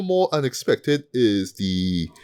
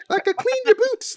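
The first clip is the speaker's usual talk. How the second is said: much higher mock Southern drawl; imitating Martha's Southern drawl. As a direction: jump way up into a hammed-up Southern accent. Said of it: "that really sudden drawl from, from Martha".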